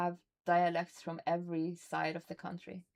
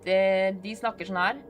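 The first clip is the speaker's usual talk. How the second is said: southern Norwegian dialect; 5 dB louder than usual. Shown as a demonstration. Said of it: "They are the ones that is bad at English".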